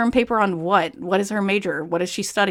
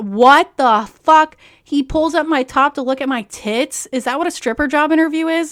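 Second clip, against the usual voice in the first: shocked outburst; 5 semitones higher, 5 dB louder than usual. Real, not acted. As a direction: stretch out the shocked "what". Shocked reaction to manager scene.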